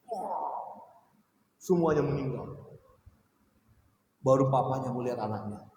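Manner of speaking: normal talking voice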